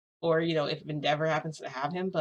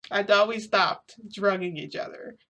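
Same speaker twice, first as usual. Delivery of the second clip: slowed right down, each word leaned on; slow, insistent repeat; 3 semitones higher than usual. Retold or imitated. Telling viewers what she said, slowly and insistently. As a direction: spell it out slowly, as if they should know. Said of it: "I know that sounds weird, okay?".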